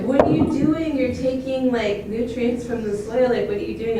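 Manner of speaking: loud, high-pitched upset protest; retold upset outburst. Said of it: "I got really upset".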